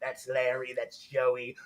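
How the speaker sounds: low, soft deadpan introductions; imitating museum visitor. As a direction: point out old pals slowly, low and offhand. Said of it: "She goes to the museum and is like".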